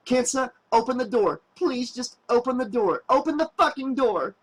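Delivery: high, rising to a frantic yell; beg, then break into a furious yell; desperate pleading. A narrator's reading. Woman pounding on the shuttle door begging Kensa, frantic high yell.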